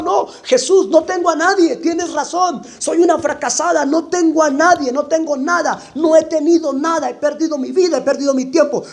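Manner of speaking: high, pleading admission of failure; pleading confession. Acted. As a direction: confess you have nothing, pitch lifted. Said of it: "Y reaccionó".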